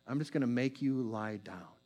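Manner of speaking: soft, low murmur; quiet, gentle invitation to lie down; God's quiet voice. Acted. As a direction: draw them in quietly. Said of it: "God's just saying".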